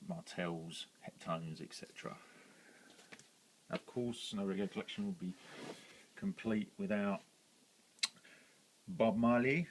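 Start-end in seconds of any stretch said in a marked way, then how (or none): 3.7-9.7 put-on hamming up a Jamaican accent to introduce a singer; light, jokey Jamaican accent, building to a big singer's name. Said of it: "Sorry for the accent".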